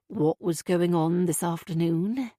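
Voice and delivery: slow, gentle questioning. Acted. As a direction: ask slowly, without pressure. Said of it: "Graham began gently".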